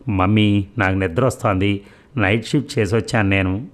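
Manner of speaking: mildly sleepy complaint; weary daughter, lightly acted; sleepy yawning. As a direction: plead tiredly, a touch of a yawn. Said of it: "ఆవలిస్తూ అంది".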